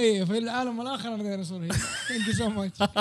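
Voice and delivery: laughing excited shout. Pretend. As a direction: shout it out, giddy. Joking, plays dinosaur healer thanks.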